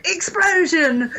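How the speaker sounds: high, drawn-out mock hype; slow mock announcement. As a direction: stretch it out like a trailer voice. Mocking action movie explosions.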